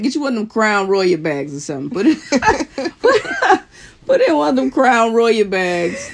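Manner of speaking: laughing while talking; cracking up mid-sentence. Real, not acted. Laughing through her own tip.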